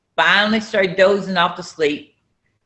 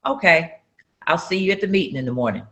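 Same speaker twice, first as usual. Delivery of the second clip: calm, softer and fast, unbothered; 4 dB quieter than usual. Retold or imitated. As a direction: brush it off coolly, quieter. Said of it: "He just calmly said".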